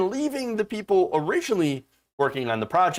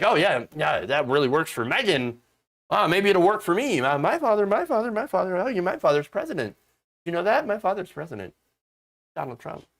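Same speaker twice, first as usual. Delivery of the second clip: mock spoiled princess voice; lightly lampoon a bratty heiress; drunken posh sneer.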